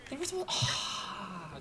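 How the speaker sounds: high, loud, slow frustrated cry; exasperated yell. Real, not acted. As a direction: shout at the wayward troops. Units retreating wrongly.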